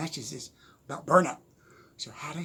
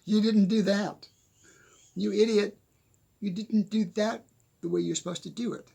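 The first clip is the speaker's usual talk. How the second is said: higher, louder, mock exasperated scolding of himself; mock self-scolding; 7 semitones higher, 7 dB louder than usual. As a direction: play-act calling yourself an idiot. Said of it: "I'm going".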